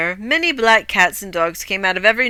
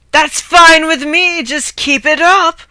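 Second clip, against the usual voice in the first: higher, louder, slow cocky call; hammed-up bravado; 7 semitones higher, 5 dB louder, slower than usual. Hero rides the galloping bed, calling out cockily. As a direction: crow it from the racing bed.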